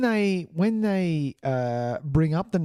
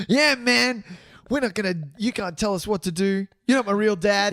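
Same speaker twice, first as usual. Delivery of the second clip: stoner voice; 5 semitones higher than usual. Retold or imitated. Mocking stoner rebel voice.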